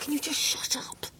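high-pitched, exasperated outburst. Acted. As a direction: cut them off, fed up. Snapping at the self-blaming visitor.

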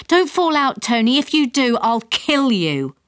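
worried mum's warning. Acted. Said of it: "held onto his legs and said".

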